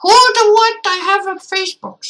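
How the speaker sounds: high, baffled squeak; mock confusion. Real, not acted. Streamer reacting to a game line, mock confusion. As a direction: sound utterly lost on purpose.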